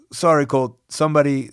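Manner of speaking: lightly attempted, awful accent of a non-native English speaker; hesitant imitation of a wrestler's accented English; awful foreign accent. Wrestler warning Colt about the table, in an awful imitated accent. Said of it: "sorry for my awful accent".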